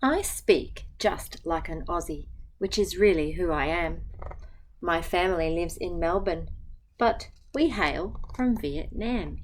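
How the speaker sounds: gentle, even picture-book reading; reading to children. Acted. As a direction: read the rhyme aloud to a class. Teacher reads picture book aloud.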